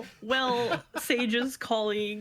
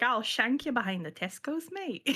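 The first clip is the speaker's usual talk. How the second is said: rough British; 3 dB quieter than usual. Pretend. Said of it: "I'm the one that goes like".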